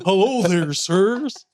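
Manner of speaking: servile robot butler impression; Crichton. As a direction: play a polite android servant offering refreshments. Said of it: "Pretend to be Crichton".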